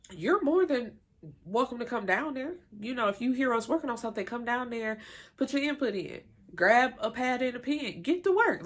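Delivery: high, exasperated imitation of the twins; mock indignant twins. Recapping the twins answering Lamisha, high exasperated mock. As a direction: play the offended twin who is fed up.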